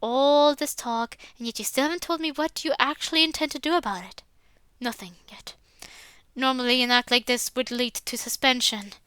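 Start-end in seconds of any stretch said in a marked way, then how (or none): 4.8-5.5 breathy muttered thought under the breath; whispered aside. Acted. Max whispering his private reply to the headmaster. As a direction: keep it to yourself, barely voiced.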